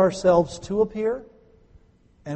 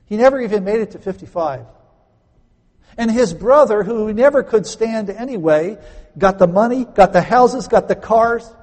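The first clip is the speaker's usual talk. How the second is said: loud, rising indignation, high and hammering; indignant preaching; 6 semitones higher, 7 dB louder than usual. Acted. Preacher to congregation, loud indignant build. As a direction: build the outrage line by line. Indignant climax about the brother.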